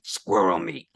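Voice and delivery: retelling the vendor's deadpan answer to friends. Retold or imitated. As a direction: say it flat like the vendor did. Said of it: "Like that".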